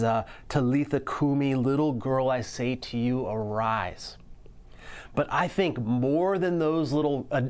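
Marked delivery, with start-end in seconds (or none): 0.5-4.2 gentle address fading to a whisper on arise; compassionate, loving. Retold or imitated. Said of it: "his compassionate, loving way that he addresses her".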